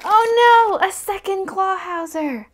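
loud, high "oh no"; playful disappointment at a duplicate; mock dismay. Real, not acted. Duplicate figure.

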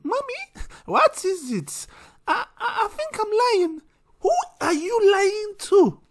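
put-on squeaky high child voice talking to Mommy; high kid voice, mum scolding him; child and mum skit. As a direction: play a little kid caught out by his mum. Acts out a child and mother exchange.

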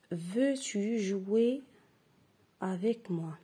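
slow, drawn-out reading aloud. Shown as a demonstration. Teacher reading slowly to the class. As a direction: read it slowly for the pupils. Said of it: "Je répète".

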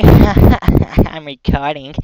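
slow, laughing through the words. Real, not acted. Teasing his friend Jack, laughing while saying it. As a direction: laugh out recording. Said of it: "teasing Jack about recording".

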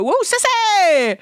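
high, drawn-out fan holler; tipsy heckle. Retold or imitated. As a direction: whoop it slowly like a tipsy fan. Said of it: "I'm a little hammered".

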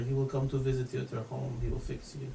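put-on low French-accented operator. French operator brushing off an emergency caller, very French. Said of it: "in the most French way".

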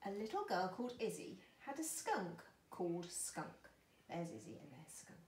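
put-on picture-book reading for small children; story narration. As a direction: read gently and clearly to children.

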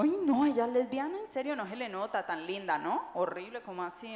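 a gossip acting scandalized; mock shocked gossip. Speaker mocks a gossip shocked that a woman is lesbian, hammed-up.

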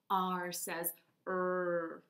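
R says R, very slow; slow pulled R. Shown as a demonstration. Teacher pulling a rope while saying R. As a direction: pull the R out like a rope. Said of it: "like you're pulling a rope".

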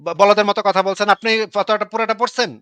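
heated, exasperated retort; angry challenge. Real, not acted. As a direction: demand an answer, really annoyed. Heated quarrel, insulting the other debater.

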